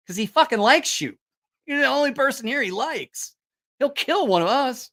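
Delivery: high-pitched, emphatic mock pleading; exasperated insistence. Crewmates refusing to wake the sleeping monster, mock exasperated insistence. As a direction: imitate a crowd insisting it has to be you.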